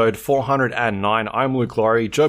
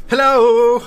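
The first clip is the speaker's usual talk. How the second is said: squeaky high put-on hello; helium voice; 9 semitones higher, 7 dB louder than usual. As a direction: pitch it way up like helium. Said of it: "I was taking the piss before".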